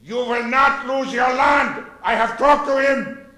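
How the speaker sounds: declaimed vow. Acted. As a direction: proclaim it like a mock dictator. Cat's vow declaimed to farmer.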